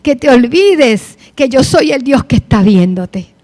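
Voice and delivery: God scolding, building in force; reproachful God. Retold or imitated. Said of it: "Pareció un reproche".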